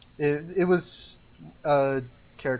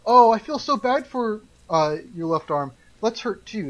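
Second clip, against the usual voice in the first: right arm talking; 6 semitones higher, 4 dB louder than usual. Acted. Right arm voiced as a character.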